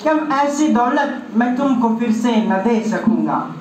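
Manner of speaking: measured, lilting mushaira verse; poetry recitation. Acted. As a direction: deliver each half-line to the gathering.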